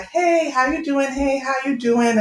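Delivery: sociable, lifted how-are-you; friendly group greeting. Retold or imitated. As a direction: imitate girlfriends greeting each in turn. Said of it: "everyone is like".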